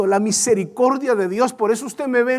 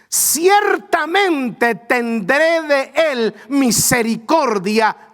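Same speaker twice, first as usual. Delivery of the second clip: tearful cry; much slower than usual. Acted. Quoting God's mercy, emotional.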